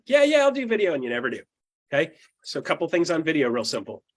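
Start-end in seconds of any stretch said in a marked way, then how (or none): 0.1-0.9 high-pitched brush-off promise; imitating an empty promise; mock agreement. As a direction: agree too readily, pitched way up. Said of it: "some of you guys are like".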